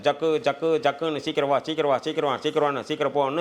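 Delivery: quick repeated urging, like a pumping heart; racing heartbeat. Shown as a demonstration. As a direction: hurry it along in rapid bursts. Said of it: "high pressure". (வேகமா துடிக்கும் இதயம் போல அவசரமா)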